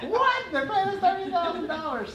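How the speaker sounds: high, stunned disbelief; imitating family's amazed gasp; mock astonishment. Family hearing the price, imitated high amazed disbelief. Family's shocked reaction retold.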